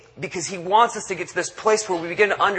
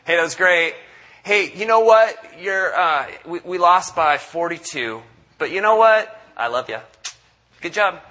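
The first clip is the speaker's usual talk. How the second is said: falsely upbeat pep, louder on you know what; mock cheery coach; 3 dB louder than usual. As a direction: pat the losing player on the back with empty cheer. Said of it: "when you come off the field is like".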